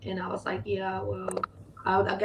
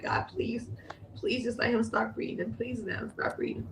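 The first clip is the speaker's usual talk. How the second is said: pleading voice, higher pitched; 3 semitones higher than usual. Recalling holding the baby, the speaker retells a pleading prayer. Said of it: "I was just praying, like".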